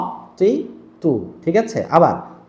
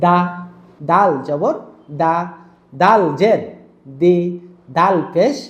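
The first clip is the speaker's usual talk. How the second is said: "দা" short and quick; a bit faster; slower than usual. Shown as a demonstration. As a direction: cut the vowel of "দা" short. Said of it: "একটু fast".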